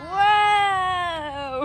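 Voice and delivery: high bright whoop; excited cheer. Real, not acted. Cheering the little boy on, a high excited whoop. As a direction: cheer him on.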